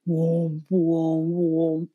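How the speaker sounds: low, drawn-out engine "whoom"; imitated generator noise. Generator running out of gas or oil, sputtering imitation. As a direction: mimic a generator losing power. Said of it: "it makes this, like, whoom ... noise".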